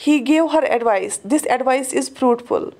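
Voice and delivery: very slow, deliberate example; slow model sentence. Shown as a demonstration. Teacher giving example sentences, very slow. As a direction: read it word by word. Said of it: "हम advices नहीं बोलते हैं".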